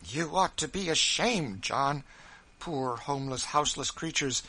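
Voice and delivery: rising outrage against a wicked law; indignant outburst. Acted.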